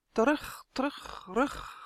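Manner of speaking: fading echo, dropping to a breath; watery echo. A narrator's reading. Water echoing the boy's call back, fading. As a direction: let each repeat fade away like an echo. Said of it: "glotste het water".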